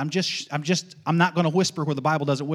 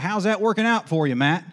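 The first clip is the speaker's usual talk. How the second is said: Southern buddy's needling; 4 semitones higher, 3 dB louder than usual. Retold or imitated. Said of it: "a buddy that used to say a lot down south".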